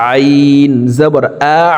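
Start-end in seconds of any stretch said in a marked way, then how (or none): 1.6-1.6 আ squeezed shut from mid-throat; pressed throat ain. Shown as a demonstration. Teacher demonstrating ain, আ with throat pressure. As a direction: press the end of আ in the middle of the throat. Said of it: "হলকের মধ্যখান থেকে চাপ দিয়ে".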